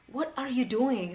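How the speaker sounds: 'What are you doing' slow, each word distinct; slow, pointed 'What are you doing'; genuinely asking. Shown as a demonstration. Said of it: "kita bener-bener pengen tahu".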